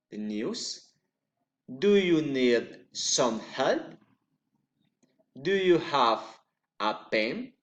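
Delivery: questions that swoop up on the last word, "book", "pen"; rising yes-no question. Shown as a demonstration. Teacher demonstrating general questions, rising intonation. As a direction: lift the end sharply on "book", "news", "help", "pen". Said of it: "raising intonation".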